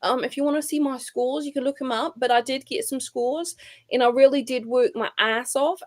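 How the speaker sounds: mocking, put-on statement voice; mock athlete's statement. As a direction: parody her statement in an affected, high voice.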